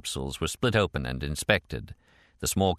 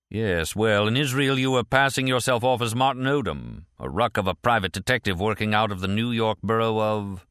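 lightly voiced official, slightly lifted pitch; a touch of sceptical interrogator; British supervisor; 3 semitones higher than usual. Supervisor questions Martin.

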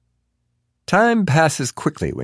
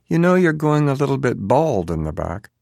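higher, falsely friendly voice; sweetly insincere, pitched up; misleadingly friendly; 6 semitones higher than usual. A narrator's reading. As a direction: feign a friendly, helpful remark. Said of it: "in a misleadingly friendly voice".

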